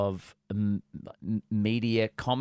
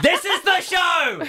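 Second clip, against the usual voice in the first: high, loud, slow, mouth closed; excited ventriloquist voice; 7 dB louder, slower than usual. Acted. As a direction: shout it through a closed mouth. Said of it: "showing ventriloquism".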